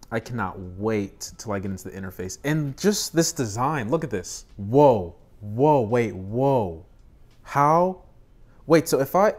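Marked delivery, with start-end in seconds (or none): 4.6-9.3 loud startled whoa; surprised. Real, not acted. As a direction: caught off guard. Surprised by screen switch.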